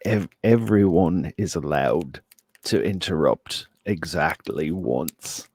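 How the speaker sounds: lightly hammed Aussie accent; exaggerated Australian accent. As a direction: keep up the put-on Australian accent. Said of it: "in an exaggerated Australian accent".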